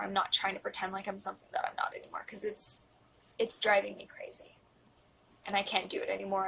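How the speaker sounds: pushing the words out through tears; emotional whisper. Real, not acted. Vowing to camera to stop hiding, tearful. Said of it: "why I'm getting emotional".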